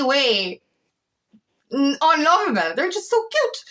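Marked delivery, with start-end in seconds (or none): 2.8-3.6 cooing fondly. Real, not acted. Gushing over a small child.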